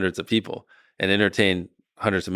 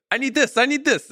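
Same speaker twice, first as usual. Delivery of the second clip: high, whiny mock plea, over and over; needy staff voice; 3 dB louder than usual. Staff members all pleading with the boss, high mock whine. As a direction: play every team begging for a slice of his time. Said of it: "everyone's just like".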